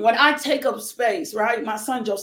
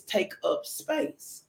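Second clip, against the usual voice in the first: slow whispered saying; 5 dB quieter, much slower than usual. Shown as a demonstration. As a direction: breathe the phrase out slowly, in a whisper. Quotes the saying, then repeats it.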